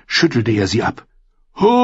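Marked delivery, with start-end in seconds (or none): 1.5-1.9 high, very long loud scream. A narrator's reading. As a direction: hold the last vowel in a long scream. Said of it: "schrie er". (langgezogener Schrei)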